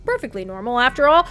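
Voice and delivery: reading the story text aloud; game narration. A narrator's reading. Narrator setting the creepy house scene for chat, read aloud.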